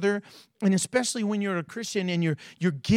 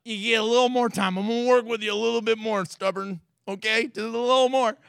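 gentle patience; faster than usual. Retold or imitated. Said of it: "And he's like".

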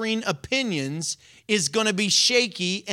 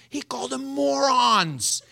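laughing; 6 semitones higher than usual. Real, not acted. Laughing at Jesus' insult.

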